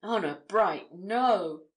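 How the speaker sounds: loud, emphatic denial; exclaiming. A narrator's reading. Reporter assuring the daughter on his honour, exclaiming. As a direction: exclaim it firmly as a pledge. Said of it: "exclaimed Spargo".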